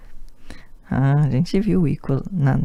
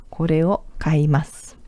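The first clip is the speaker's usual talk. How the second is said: whisper. Shown as a demonstration. Teacher models phrase.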